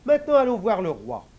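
high laughing woman's voice; laughing wife. Acted. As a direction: laugh through the words. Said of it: "la femme se met à rire".

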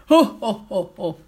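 mocking "oh, oh, oh, oh" laugh; acted villain's belly laugh; loud mocking laugh. A narrator's reading. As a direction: jeer in separate bursts that die away. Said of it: "rire bruyant et moqueur".

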